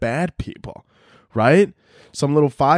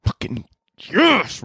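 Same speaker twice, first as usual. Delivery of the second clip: gleeful; 6 semitones higher, much slower than usual. Retold or imitated. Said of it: "you're like".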